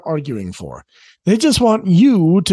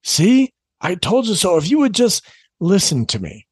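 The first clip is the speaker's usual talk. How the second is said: mean told-you-so; 2 semitones higher than usual. Retold or imitated. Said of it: "saying mean, unnecessary things like".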